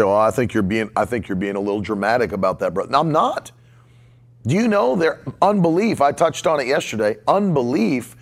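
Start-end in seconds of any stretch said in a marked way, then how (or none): 0.0-2.8 quick, dismissive voice dropped low; mocking doubter. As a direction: brush it off like a sceptic friend. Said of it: "You say".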